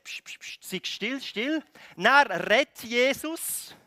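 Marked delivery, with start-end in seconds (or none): 0.0-1.6 hissed, half-whispered hush; whispery pssts turning into a voiced order; shushing. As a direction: quickly silence someone. Replays the crowd hushing him.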